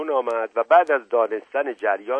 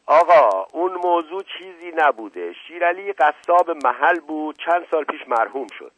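higher, insistent brushing-off; protesting explanation; 6 semitones higher, 5 dB louder than usual. Acted. Uncle covers up the butcher affair to the inspector, protesting. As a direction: wave the whole matter away.

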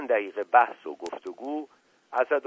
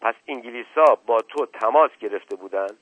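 angry demand, louder; 6 dB louder than usual. Acted. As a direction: confront him sharply. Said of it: "با لحن عصبانی". (با لحن عصبانی)

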